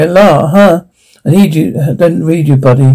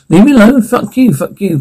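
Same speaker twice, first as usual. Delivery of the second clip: furious outburst; 5 semitones higher than usual. Acted. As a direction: pitch jumps high, hurled back in rage. Furious clash with inner tormentor.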